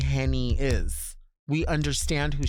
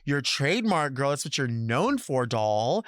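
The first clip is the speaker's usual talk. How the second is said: mock hype. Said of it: "When I hear a bitch say that, I go".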